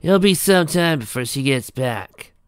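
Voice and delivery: a touch of sadness; mildly sad. A narrator's reading. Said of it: "the mayor said sadly".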